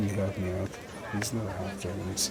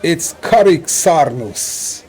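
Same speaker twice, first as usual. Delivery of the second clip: slow, higher booming call; announcer; 4 semitones higher, 5 dB louder, slower than usual. Acted. The announcer presents Karik Sarnus, slow and booming. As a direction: announce the contestant grandly. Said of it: "the announcer goes".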